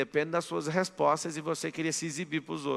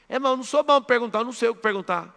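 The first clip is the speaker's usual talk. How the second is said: louder, higher, quicker whining objection; mock objector; 5 semitones higher, 6 dB louder, faster than usual. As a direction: play the doubtful student, raised and fast. Imagined audience member objecting. (aluno reclamando de brincadeira, mais alto e rápido)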